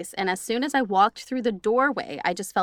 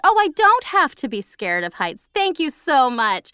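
sarcastic thanks; 5 semitones higher, 5 dB louder than usual. Acted. Host mock-thanking the ghost for its advice, sarcastic. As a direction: thank the ghost with heavy irony.

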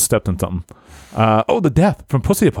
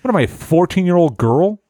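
scoffing; 7 semitones higher than usual. Retold or imitated. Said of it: "It's like".

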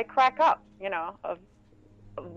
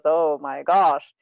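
exasperated son; 5 semitones lower, 5 dB louder, much slower than usual. Retold or imitated. Voicing son's exasperated reaction.

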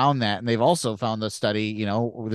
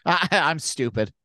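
sheepish little self-put-down; self-deprecating; 4 semitones higher than usual. Retold or imitated. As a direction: play it sheepish and silly. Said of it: "self-deprecating joke".

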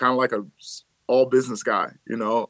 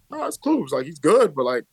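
dismissive; 3 semitones higher than usual. Retold or imitated. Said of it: "It was like".

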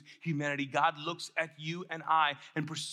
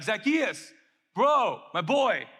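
drawn-out, loud greeting to a pal; buddy hailing; 3 semitones higher, 6 dB louder, slower than usual. Acted. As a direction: hail your best bro across the crowd. Jesus hailing Zacchaeus like a buddy.

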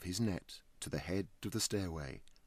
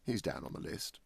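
careless; 4 semitones lower than usual. Acted. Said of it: "said Clovis carelessly".

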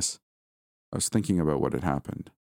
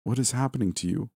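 crying out; 6 semitones higher than usual. A narrator's reading. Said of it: "I cried".

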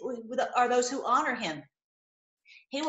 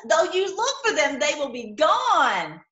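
fervent cry; 4 semitones higher, 5 dB louder than usual. Real, not acted. Rereads verse with fervour.

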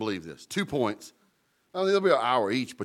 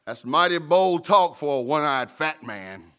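a taunting shout from horseback, a bit louder; mock gunman yell; 2 semitones higher, 5 dB louder than usual. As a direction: call out the taunt like a cowboy. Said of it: "one guy yells out".

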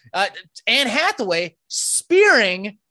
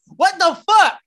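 mock shocked crowd; 9 semitones higher, 6 dB louder, slower than usual. Crowd reacts to Oscars attack.

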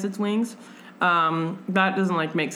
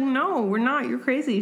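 heroine; 7 semitones higher than usual. Retold or imitated. Heroine voiced in retelling.

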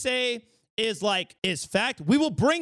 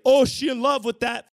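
louder, sassy crab voice; Sebastian voice; 3 dB louder than usual. Retold or imitated. Crab tells the king about her crush, sassy and loud. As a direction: gossip it like the crab. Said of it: "Sebastian's like".

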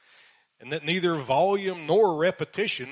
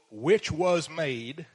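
slow, pointed air-quote delivery; sarcastic slow quote with a rising end; scare quotes; much slower than usual. Shown as a demonstration. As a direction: drag it out to mock the claim.

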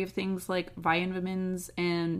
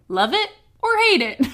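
laughing through the slogan; 8 semitones higher, 6 dB louder, faster than usual. Real, not acted. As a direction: read it while cracking up. Reading the bottle slogan, laughing.

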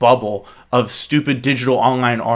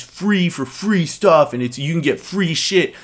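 "free" stressed harder than the words round it; 3 semitones higher than usual. Retold or imitated. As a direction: lean on every "free". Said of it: "He emphasized all the words free".

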